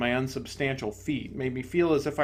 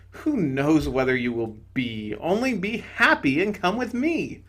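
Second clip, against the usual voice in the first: serene bright spirit; 2 semitones higher than usual. Acted. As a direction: soothe him from above.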